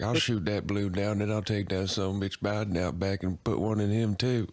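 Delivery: lightly put-on yokel voice; gun-nut parody. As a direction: imitate a trigger-happy local bragging. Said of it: "He's like".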